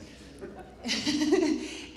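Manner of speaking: high laugh breaking in late; real laugh. Real, not acted. Host after stumbling over a name, real laugh. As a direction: laugh it off before carrying on.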